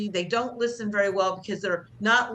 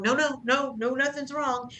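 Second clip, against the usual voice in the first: higher, overly bright protest; mock breezy denial; passive-aggressive denial; 6 semitones higher than usual. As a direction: deny it a bit too fast. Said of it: "when you're muttering".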